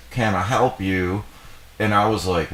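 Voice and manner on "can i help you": lightly imitated Southern drawl, drawn out; slow it into a mild Southern accent; Southern accent imitation. Gas station woman to a traveler, imitated Southern accent. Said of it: "she's like".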